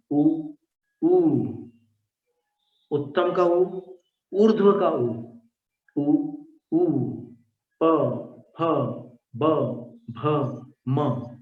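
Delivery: each sound said alone, lips closed; teacher sounds out उ ऊ प फ ब भ म slowly one by one; bilabial sounds demo. Shown as a demonstration. Teacher to students, sounding out bilabial letters slowly. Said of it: "उच्चारण तो दोनों होठों से किए".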